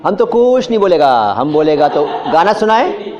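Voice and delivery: hushed sibilants, half-sung and stretched; imitating a singer. Retold or imitated. Teacher quoting a film song to the class, comic SH-heavy delivery. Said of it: "एक गायक ने उसको श का".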